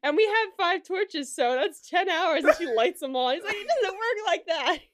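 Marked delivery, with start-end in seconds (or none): 0.0-2.4 high, loud, stretched-out comic quote; hammed-up triumphant reasoning; mock-proud announcement. Acting out funny torch scene. 3.6-4.8 high, loud comic protest; imitated outburst, pitched way up and slow; mock exasperation. Acted protest in retold scene.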